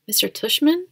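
puzzled question. A narrator's reading. Kid questioning mom about the principal's name, puzzled. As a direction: query the name, voice lifting.

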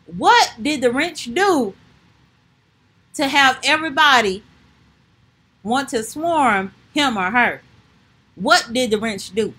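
hammed-up defense attorney; mock courtroom speech. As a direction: press each question like a lawyer.

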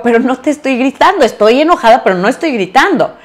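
insisting not shouting. Retold or imitated. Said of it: "Y yo".

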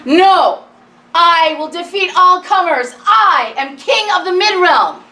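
put-on loud boy declaring himself king; boastful boy proclaiming. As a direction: proclaim it like a proud kid. Boy's bold proclamation.

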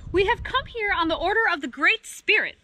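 high, formal proclamation; announcing. A narrator's reading. Dog to Fennec Fox on spirit's orders, announcing. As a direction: announce it like an official envoy. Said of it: "Dog announced".

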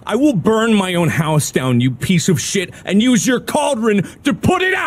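growled threat. Real, not acted. Player threatening the game witch, low growl. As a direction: spit the threat low at the screen.

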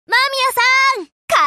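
bright carrying call. Acted. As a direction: hail the shopkeeper. Calls to shopkeeper to order curry.

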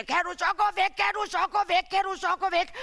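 imagined father telling him to leave; mildly voiced stern father; imagined angry father. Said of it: "Han kommer sikkert og siger".

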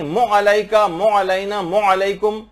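मो अलैका with मीम and ain merged; mistaken mo sound. Shown as a demonstration. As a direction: merge them into मो on purpose. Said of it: "मो की आवाज निकाले".

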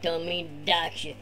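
laid-back surfer bro; be the chill beach surfer dude; the speaker's surfer voice. Acted. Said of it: "turn this over to Tony".

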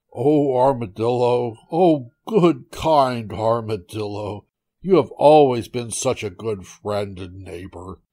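lightly acted begging with stretched "oh"s; pleading tiger. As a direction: implore a neighbor for help. Trapped tiger begs armadillo for help.

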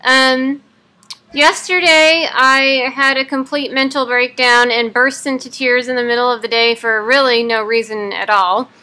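talking through clenched teeth; jaw wired shut. Real, not acted. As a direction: speak with teeth held shut. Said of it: "day fourteen of having my jaw wired shut".

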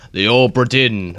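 mock pirate accent on the name; playful pirate-accent flourish. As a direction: roll it out like a pirate. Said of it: "Obra Dinn in a pirate accent".

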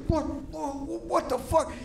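high, stunned disbelief; shocked dad. Retold or imitated. Dad hearing his son wants a Ken doll, high shocked. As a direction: squeak out the shock. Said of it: "my dad was like".

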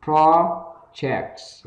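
"projects" high, short O, pressed J. Shown as a demonstration. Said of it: "âm J chúng ta gằn giọng xuống". ("projects" gằn âm J, âm E ngắn)

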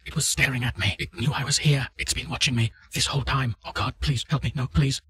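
terrified, being chased and begging; panicked and hysterical. Acted. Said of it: "Panicked and hysterical".

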